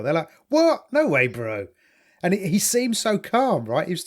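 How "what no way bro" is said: South African incredulity. Retold or imitated. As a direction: squeak out disbelief, then shrug. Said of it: "they do incredulity very well".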